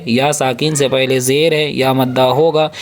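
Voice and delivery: ordinary delivery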